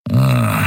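a short low grunted growl. A narrator's reading. Tired pilot handing over the ship, low growl. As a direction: growl it out, grudgingly. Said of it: "knurrte er".

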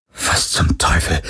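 slow, voiceless whisper; slow, aghast whisper; breathed. A narrator's reading. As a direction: breathe it out in stunned disbelief. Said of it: "hauchte Parker".

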